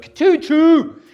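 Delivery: a goofy imitated celebration noise; mock goal sound. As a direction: blurt a cartoon train sound.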